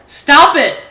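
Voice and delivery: high, loud furious yell; furious shout. A narrator's reading. Dad yells at his son to stop. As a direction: cut him off with a roar. Father snaps at begging son.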